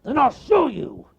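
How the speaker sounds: high, loud bear voice; loud cartoon bear threat; threatening bear. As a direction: bear vowing to prove it.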